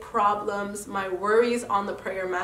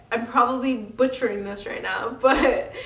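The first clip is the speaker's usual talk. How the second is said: laughing. Real, not acted. Laughs at herself.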